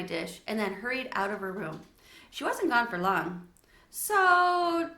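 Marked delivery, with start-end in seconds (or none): 3.9-4.9 put-on high, loud excited girl. A narrator's reading. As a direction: blurt it out like an excited child. Girl's excited news.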